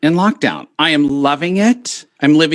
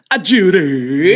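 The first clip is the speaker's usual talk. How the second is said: mock call; 2 semitones higher, 3 dB louder, slower than usual. Shown as a demonstration. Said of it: "'cause I used to say".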